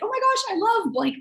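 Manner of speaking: high, gushing "oh my gosh" opening; loving. Retold or imitated. Replying to a friend's party invite, loving and gushy. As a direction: gush lovingly, starting high and easing down. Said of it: "response to that person was really loving".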